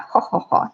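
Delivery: put-on upper-class "ha ha ha"; mock posh laugh. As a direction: imitate a snooty laugh, spaced out. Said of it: "you know, those types".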